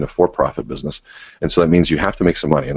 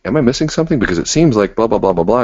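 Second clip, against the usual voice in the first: rambling question; 6 semitones higher than usual. Shown as a demonstration. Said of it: "don't say".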